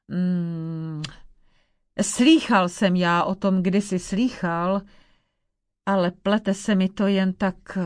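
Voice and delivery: put-on old crone musing, then fussing over her guest; old witch.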